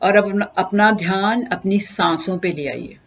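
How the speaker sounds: unhurried instruction with long pauses; guided meditation. Acted. Teacher leading listeners into breath meditation, calm guided delivery. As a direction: guide them gently into stillness, pausing between steps.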